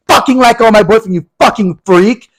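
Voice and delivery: high-pitched furious boyfriend impression; hammed-up high, accusing fury; mock angry outburst. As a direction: imitate a boyfriend bursting in enraged. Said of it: "This boyfriend busts out".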